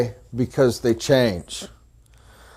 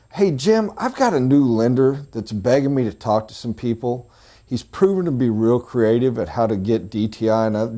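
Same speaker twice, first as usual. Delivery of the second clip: friendly request. Retold or imitated. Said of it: "You go to him and say".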